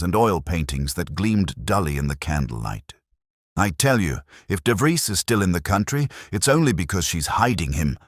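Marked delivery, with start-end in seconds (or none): 3.6-8.0 louder, clipped urgent snap; snapped. Acted. Younger man snapping at his partner, louder. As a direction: bite the words off at him. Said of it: "the younger man snapped".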